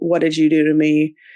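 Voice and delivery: ordinary delivery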